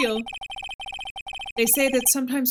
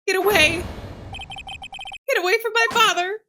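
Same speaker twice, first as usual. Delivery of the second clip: desperate shout; 10 semitones higher than usual. Retold or imitated. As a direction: shout to drive the attacker off. Child defends father.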